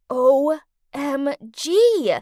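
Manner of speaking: slow, loud drawn-out O M G; stunned disbelief; shocked. Acted. Shocked at photos.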